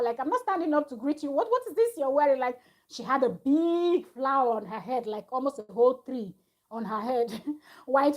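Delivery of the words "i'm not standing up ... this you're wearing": higher-pitched, quick retold protest; mild mock scream. Iyabo objecting from afar to Choma's dress, mock screaming. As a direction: imitate someone calling out in objection, only slightly raised. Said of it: "Iyabo Ojo was just screaming from afar".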